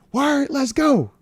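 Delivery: imitating son's reply. Dad reads out his son's text in a high, slow kid voice. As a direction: play the hyped kid saying it slowly.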